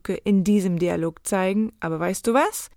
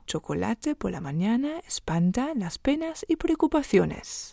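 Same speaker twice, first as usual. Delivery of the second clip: soft, voiceless whisper; whispered prompt; 2 semitones higher, 6 dB quieter than usual. Shown as a demonstration. Teacher reminds learners of the saying, whispering. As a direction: whisper it like a secret hint.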